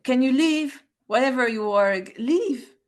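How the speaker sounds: loud, high command to leave; shouting. Acted. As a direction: yell at the creature to go. Player shouts at monster.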